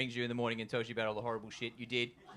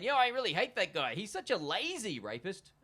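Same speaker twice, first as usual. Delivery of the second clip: mock bro rant; 5 semitones higher than usual. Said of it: "It's like me saying".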